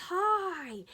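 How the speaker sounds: big, loud, high hello; Cookie Monster. Acted. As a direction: call out a character's greeting, high and loud. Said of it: "Cookie says".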